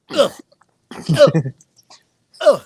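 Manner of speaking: short, punchy grunts of disgust; disgusted ugh. Real, not acted. Reacting to Sam Darnold and Baker Mayfield, disgusted grunts. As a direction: let out separate, disgusted ughs.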